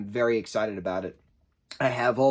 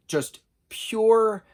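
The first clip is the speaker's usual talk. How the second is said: exclaimed first take; 10 semitones higher, 5 dB louder than usual. Real, not acted. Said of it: "There we go".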